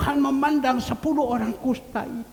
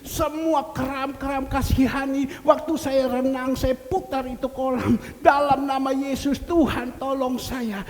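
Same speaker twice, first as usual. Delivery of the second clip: raised repeated pleas to the Lord; pleading cry; 4 semitones higher, 4 dB louder than usual. Retold or imitated. Believer crying out to the Lord in pain, pleading. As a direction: beg the Lord over and over. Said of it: "Kita kalau ada apa-apa teriak".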